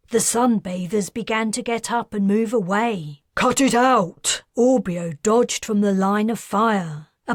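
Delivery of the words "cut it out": shout. A narrator's reading. Shouting at fighting men.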